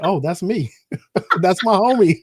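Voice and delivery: laughing. Retold or imitated.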